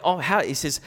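ordinary delivery

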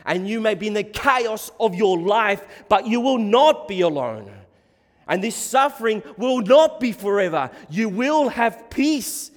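loud, high, emphatic promise; full-force preaching. Real, not acted. Preacher promising suffering disciples peace, full-force exhortation. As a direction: preach it out with conviction.

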